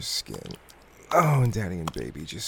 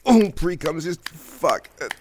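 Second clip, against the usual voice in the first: higher and louder, building to cries; climaxing; 9 semitones higher, 7 dB louder than usual. Acted. Lover reaching climax with his partner, rising cries. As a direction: let it climb into breathless climax cries.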